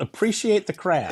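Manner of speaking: lighter, put-on scolding repeat; mock scolding voice. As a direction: echo it in a hammed-up scold. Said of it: "you yelled at everybody".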